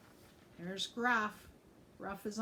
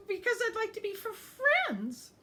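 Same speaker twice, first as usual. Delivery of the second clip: hopeful; 6 dB louder than usual. A narrator's reading. Ogre hoping for friendship.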